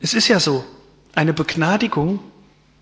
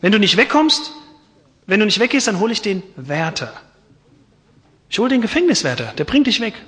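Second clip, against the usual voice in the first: threatening; 4 semitones higher, faster than usual. Acted. Prisoner threatens the visitor.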